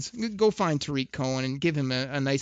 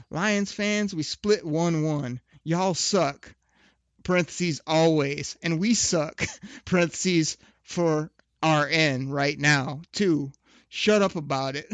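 mocking tweet read; 3 semitones higher, 3 dB louder, slower than usual. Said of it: "this is what Tariq Cohen had to tweet out".

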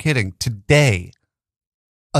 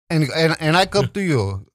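halting, badly faked Jamaican; shitty Jamaican accent; 3 semitones higher than usual. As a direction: stumble into a poor Jamaican accent. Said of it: "I do a shitty Jamaican accent".

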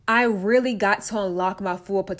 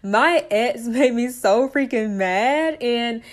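laughing; 3 semitones higher, 3 dB louder, slower than usual. Real, not acted. Redoes line after burp, laughing.

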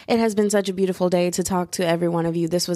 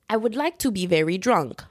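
put-on British accent. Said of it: "my British accent sucks".

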